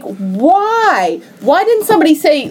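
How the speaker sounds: swooping, high-pitched plea; exasperated disbelief. Retold or imitated. Host complaining to friends about a film accent, exasperated. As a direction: wail the question in mock exasperation.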